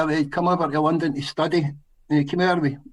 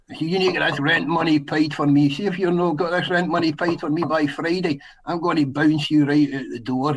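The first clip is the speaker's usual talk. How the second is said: put-on broad Scottish accent. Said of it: "I put the real heavy Scottish accent on".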